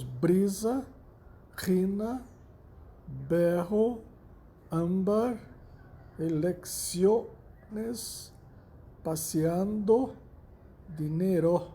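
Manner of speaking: "brisa, rina, berro, âmbar, elecciones, paseando, dinero" each stressed on the second-last syllable; measured word list from "brisa" to "dinero", leaning on each penultimate syllable. Shown as a demonstration. Teacher listing Spanish graves examples, penultimate syllable stressed in "brisa" through "dinero". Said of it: "la sílaba tónica cae en la penúltima".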